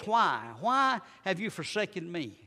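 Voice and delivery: a touch of a broken heart in the question; hurt pleading why. Shown as a demonstration. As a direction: ask why like a hurt child. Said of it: "The tone of his voice".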